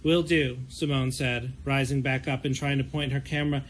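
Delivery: calm, even novel reading; story narration. Acted. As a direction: read the chapter like an audiobook. Author reads her novel aloud.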